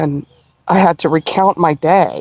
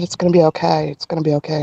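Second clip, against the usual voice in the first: retold reassurance; 3 semitones lower, faster than usual. Retold woman comforting her with a hug.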